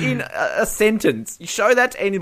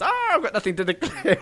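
softer, amused Bond impression; Pierce Brosnan; 3 semitones higher, 6 dB quieter than usual. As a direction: sigh it softly as a film spy. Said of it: "And what's Brosnan's?".

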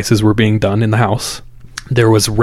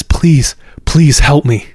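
higher-pitched pleading, mildly acted panic; frantic plea; 5 semitones higher, 3 dB louder, slower than usual. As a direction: act out a frightened woman begging. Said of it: "she's frantic".

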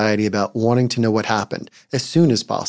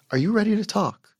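gentle, non-judging question, pitched higher; calm, no anger; 9 semitones higher, 3 dB quieter than usual. Shown as a demonstration. Parent gently checking if upset child is ready, calm. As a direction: ask softly, without any judgment. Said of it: "Calmly ask in a voice without anger or judgment".

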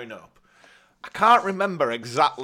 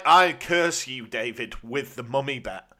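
laying a curse. Pretend. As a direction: proclaim it like a mock wizard. Jokingly curses friend with mummy bet.

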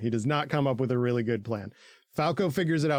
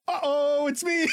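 high, cheeky mock voice; playful high put-on voice; mock Hanji; 13 semitones higher than usual. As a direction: sing it out playfully, way up. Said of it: "and is like".

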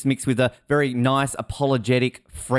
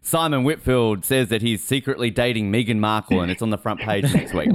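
slow, low fake press tip; S1 pretending to feed a tabloid a fake story, slow and low; mock tip-off; 4 semitones lower than usual. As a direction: drawl a fake scoop to People magazine. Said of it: "You know".

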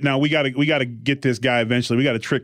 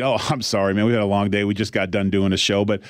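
polite white voice; 5 semitones lower, faster than usual. Retold or imitated. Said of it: "That's my police voice and get a job voice".

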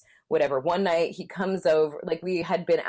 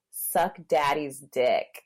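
mock low drawl; 3 semitones lower, much slower than usual. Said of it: "He goes".

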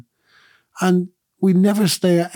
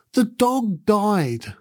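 very slow, higher, tearful child's sob, imitated; retold crying; 6 semitones higher, much slower than usual. Dad retelling his daughter's sob about the dog, slow tearful wail. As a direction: drag it out like a sobbing child. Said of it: "she was bawling her eyes out".

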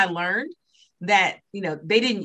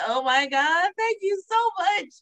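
retold boohoo crying; 13 semitones higher than usual. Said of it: "So I'm boohoo crying".

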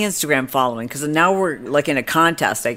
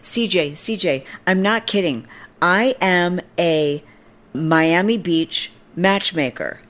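higher-pitched plea slowing into a proclamation; pushy stranger imitation, slow and emphatic at the end; imitating insistent woman; 3 semitones higher than usual. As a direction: mimic her urgency, then space out the announcement. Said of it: "and she goes".

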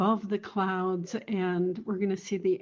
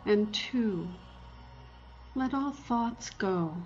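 guided meditation. Acted. Meditation countdown continues.

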